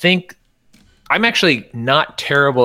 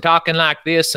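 a brief Southern twang from Tennessee; Deep South accent; 5 semitones higher than usual. Shown as a demonstration. Showing how a person from Tennessee talks, Southern accent. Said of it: "come from the deep South in Tennessee".

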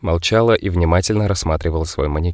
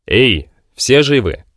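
slow, careful call into the wreckage; cautious call; 6 semitones higher, 6 dB louder, much slower than usual. Acted. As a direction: call out slowly, unsure who answers. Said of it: "осторожно позвал".

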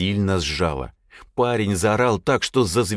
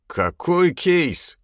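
much higher, slow, puzzled question; surprised; 11 semitones higher, 3 dB louder, much slower than usual. A narrator's reading. Aram, surprised by the steel case, asks slowly and higher. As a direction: ask as if hearing of it for the first time. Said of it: "удивился Арам".

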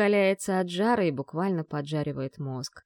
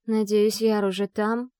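normal talking voice

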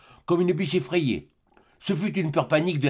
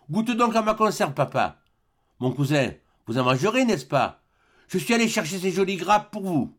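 bold daughter; 5 semitones higher than usual. Acted. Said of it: "offrit audacieusement".

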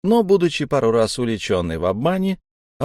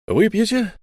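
friendly; 9 semitones higher than usual. A narrator's reading. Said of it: "спросил он дружелюбно".

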